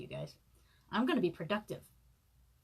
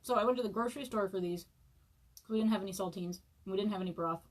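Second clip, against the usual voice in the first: talking while chewing; mouth full; faster than usual. Real, not acted. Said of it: "talk with my mouth full".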